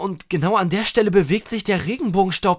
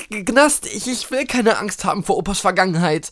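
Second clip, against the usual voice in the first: higher, quicker, stammering start; nervous; 4 semitones higher, 3 dB louder, faster than usual. Real, not acted. Listener frightened by grandpa's past, nervous. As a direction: stumble over the first words, uneasy. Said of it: "Das macht mir jetzt auch Angst".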